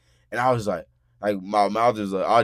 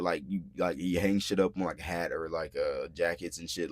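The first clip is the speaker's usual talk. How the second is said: plain reading voice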